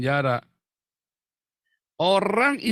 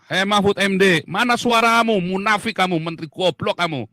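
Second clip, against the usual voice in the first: higher, louder scornful yelling; real angry shout; 4 semitones higher, 5 dB louder than usual. Real, not acted. Vlogger shouting insults at the minister, furious. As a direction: call him out at full voice. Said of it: "saya teriak lebih keras lagi".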